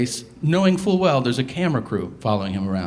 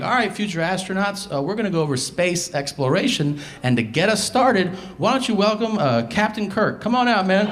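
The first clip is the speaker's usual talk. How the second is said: higher, hyped-up presenter voice; mock NASA host; 6 semitones higher than usual. NASA instructor welcoming astronauts, higher hyped-up announcer. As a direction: play the eager host introducing a guest. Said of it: "they're like".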